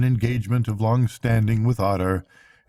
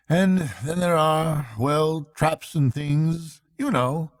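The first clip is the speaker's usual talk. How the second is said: lightly raised voice for the worried Rat; a hint of concern, voice a little higher; Rat, kindly but worried; 3 semitones higher than usual. Rat telling Mole of the otters' trouble, lightly worried.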